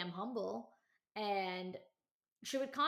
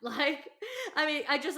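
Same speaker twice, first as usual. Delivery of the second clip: laughing through the words, higher and louder; real incredulous laugh; 7 semitones higher, 9 dB louder than usual. Real, not acted. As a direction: laugh in disbelief as you talk.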